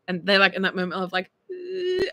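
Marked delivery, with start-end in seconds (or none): 1.5-2.0 high imitated whimper; about-to-cry whimper. Imitating a sibling hit too hard, about-to-cry whimper. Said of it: "they're about to cry".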